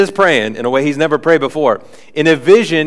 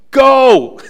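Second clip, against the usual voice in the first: loud, high, blunt command; very direct; 11 semitones higher, 8 dB louder than usual. Retold or imitated. The Lord commands Ananias to go, blunt loud order. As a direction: snap the order out. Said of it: "Very direct".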